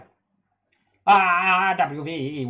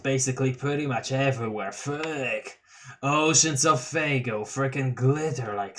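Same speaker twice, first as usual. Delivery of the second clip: lightly voiced stoned clown; Gamzee voice. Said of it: "Gamzee Tavros convo".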